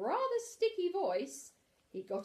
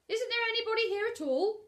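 whisper; 14 semitones higher, 8 dB louder than usual. Acted. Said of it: "said Pooh".

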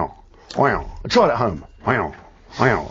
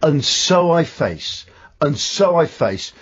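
slow line from a singer; much slower than usual. Retold or imitated. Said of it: "you're going to".

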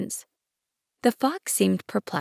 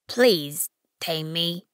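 slow tender plea; much slower than usual. Acted. Fox pleads slowly.

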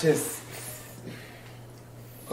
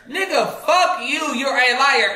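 angry; 5 semitones higher than usual. Real, not acted. Furious outburst at friend.

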